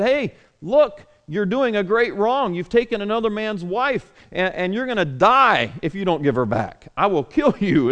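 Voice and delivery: God warning Abimelech he will die; stern God warning. Retold or imitated. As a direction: lay down the threat like a stern God. God warns Abimelech in dream.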